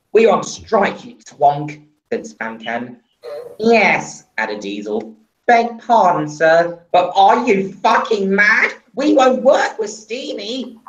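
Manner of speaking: defiant. Acted. Engines defy the boss.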